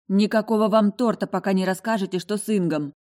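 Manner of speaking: loud demanding cry; shouted out. Acted. Heroine shouting at her guests for news. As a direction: yell it, demanding answers. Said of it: "выкрикнула".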